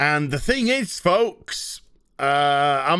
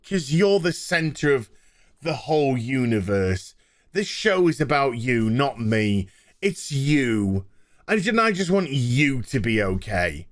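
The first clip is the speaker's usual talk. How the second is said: mock crying Loki; 4 semitones lower than usual. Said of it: "while crying".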